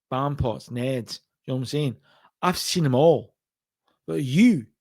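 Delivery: put-on a failed stab at a Glasgow-style Scottish accent; Scottish heel sneering at a loser, bad Scottish accent. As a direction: attempt a rough Scottish accent and fall short. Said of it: "I'm trying to do Noam Dar".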